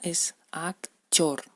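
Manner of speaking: actor con la t suave como ch, despacio; ruso actor. Shown as a demonstration. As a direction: di "actor" con un sonido chor al final, lento. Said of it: "pero en ruso es actor". ("actor" a la rusa, como "akchor")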